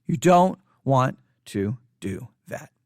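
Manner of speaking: low whispery words, slowly spaced out; hushed warning. Real, not acted. Cautioning pastors against downplaying the virus, hushed warning. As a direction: sink low and separate every word.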